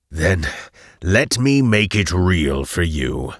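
loud, slow, menacing boom; villainous bellow. A narrator's reading. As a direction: bellow it slowly like an all-knowing villain. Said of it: "his omniscient voice bellowed from everywhere".

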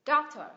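"doctor" loud on DOC; stressed syllable. Shown as a demonstration. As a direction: punch the first syllable of "doctor". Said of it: "Đây là âm được nhấn".

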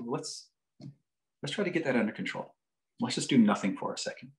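soft, even, reassuring voice; calm prosody. Retold or imitated. Psychologist settling an enraged client, soft calm prosody. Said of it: "I was using calm prosody".

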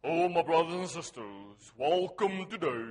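mock-solemn deep greeting, stretched out; deep preacher voice. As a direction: put on a deep, impressive religious voice. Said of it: "if said in a deep enough voice".

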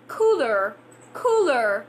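"Cooler" with the r curled at the end; American cooler. Shown as a demonstration.

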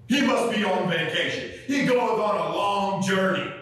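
preacher acting out Elijah's smack talk; mock taunting. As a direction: needle them with mocking encouragement. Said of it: "talking smack to these pagans".

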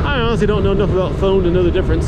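helmet-cam mic while riding in wind; inside a helmet. Real, not acted. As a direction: talk into a GoPro mic inside an open-face helmet. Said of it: "looks and sounds in action".

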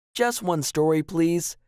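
put-on high little-girl plea; wheedling for a favour; pleading child. A narrator's reading.

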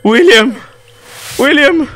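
building eerie calls; rising calls. Acted. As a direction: call the name, building each time. Game calls William thrice.

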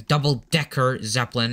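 "double-decker Zeppelin" repeated with firm, distinct stresses; emphatic clarification. Real, not acted. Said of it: "I'm saying auto".

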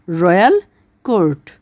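রয়্যাল and কোর্ট said as separate parts; split into two parts. Shown as a demonstration. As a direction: pause between রয়্যাল and কোর্ট. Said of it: "রয়্যাল কোর্টকে আমরা দুই ভাগে ভাগ করতে পারি".

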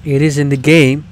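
loud, insistent correction. Real, not acted. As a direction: correct them loudly. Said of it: "you don't need to yell at me".

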